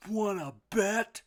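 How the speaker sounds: loud, slow bully duck voice; bully squawk. A narrator's reading. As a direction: block the path and sneer. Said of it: "came the thundering reply".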